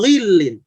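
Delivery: "ghilin" overly heavy, rounded like "ghuilin"; wrong thick ghain. Shown as a demonstration. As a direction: overdo the back rounding on "ghilin". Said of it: "bukan begitu". ("ghilin" terlalu tebal, contoh keliru)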